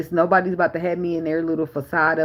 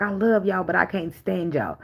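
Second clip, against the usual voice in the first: imitating mama; 4 semitones higher than usual. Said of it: "my mama used to say shit to us".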